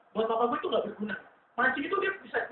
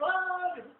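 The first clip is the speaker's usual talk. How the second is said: two-voice scream; 5 semitones higher, slower than usual. Retold or imitated. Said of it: "teriaknya ambil suara dua gitu".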